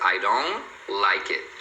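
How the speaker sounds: DON'T said slowly as "dohn", no T; slow demo, dropping the final T of "don't"; silent T. Shown as a demonstration. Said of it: "você não pronuncia o T".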